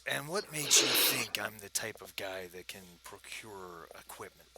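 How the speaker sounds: lightly voiced gravelly British dealer; a touch of low British gravel. Dealer questioning the would-be buyers, lightly gravelly voice. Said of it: "he's got that low gravelly voice".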